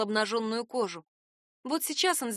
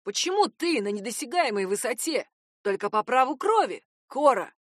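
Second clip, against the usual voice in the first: put-on desperate young man; 2 semitones lower than usual. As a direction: pour out a bitter grievance, rising to her name. Narrator voices Vik's outburst.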